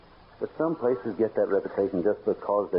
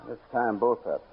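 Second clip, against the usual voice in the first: tense commands; 11 semitones higher than usual. Acted. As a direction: make him drop the gun. Tense standoff with the villain.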